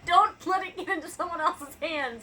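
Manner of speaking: high, loud words through laughter; laughing. Real, not acted. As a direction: laugh out the warning. Laughing warning about the book.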